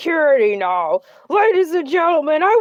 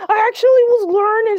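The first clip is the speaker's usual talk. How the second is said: outraged shout; 6 semitones higher than usual. Acted. Outraged the Ladybug is gone.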